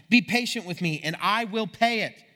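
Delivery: mildly pleading, stretched at the end. A narrator's reading. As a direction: read a plea with some extra push. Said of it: "he pleaded".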